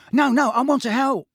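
high, loud, eager voice; bright. A narrator's reading. Tonks insisting that she wants to help, bright. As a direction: chirp it brightly, keen to pitch in. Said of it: "said Tonks brightly".

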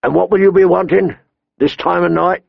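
a surly man on the wall questioning; gruff winchman. A narrator's reading. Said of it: "the one by the winch said".

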